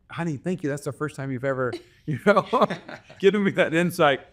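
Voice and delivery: teasing his wife with laughing fake thanks; laughing mock gratitude. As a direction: thank her with a playful laugh breaking in.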